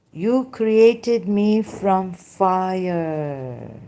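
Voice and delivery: very slow, stretched scripture recitation; drawn-out recitation. Acted. Iblis answers God why he refused to bow, drawn-out recitation. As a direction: recite it with long-held words, falling away at the end.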